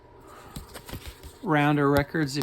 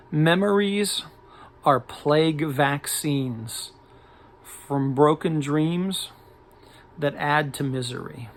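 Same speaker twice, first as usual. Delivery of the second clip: dramatic lyric recitation; 3 dB louder than usual. Acted. Record collector reading an odd lyric to viewers, declaimed slowly. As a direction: declaim each phrase slowly, with pauses between.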